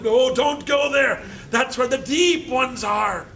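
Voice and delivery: a mock New England accent, hammed up. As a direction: warn him off in a New England old-timer accent. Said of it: "That's my New England accent".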